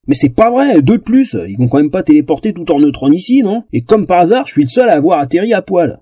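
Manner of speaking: high, indignant grumbling. Acted. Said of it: "Laissons-la ronchonner".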